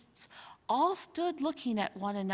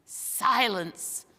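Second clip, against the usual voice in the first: a firm, mildly raised command; mild thunder. Acted. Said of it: "thundered Rishta Tarkan".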